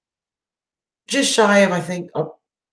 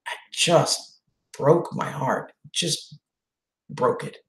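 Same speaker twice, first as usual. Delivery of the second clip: choked up; 6 dB quieter, much slower than usual. Real, not acted. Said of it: "I'm gonna get all emotional again".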